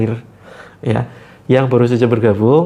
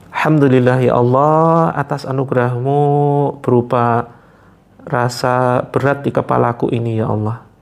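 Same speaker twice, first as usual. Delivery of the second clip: prayer demo. Shown as a demonstration. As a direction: pray it earnestly, drawing out ya Allah. Demonstrates the prayer to say. (doa yang khusyuk dan pelan)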